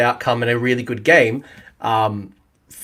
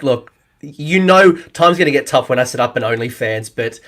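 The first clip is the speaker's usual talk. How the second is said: mock grand influencer. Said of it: "walking around like a messiah".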